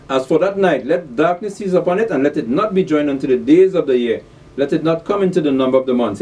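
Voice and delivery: measured, declaimed Bible reading; scripture reading. Acted. Preacher reads of Job's three friends, declaimed scripture reading. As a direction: read the verses out clearly to listeners.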